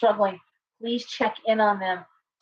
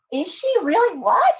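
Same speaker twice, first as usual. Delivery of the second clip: high mock surprise; 10 semitones higher, 3 dB louder than usual. Someone voiced in surprise.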